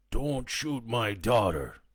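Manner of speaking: put-on slow, high old man's plea; father begging them not to shoot his daughter. A narrator's reading. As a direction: beg them to spare her. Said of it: "he begged".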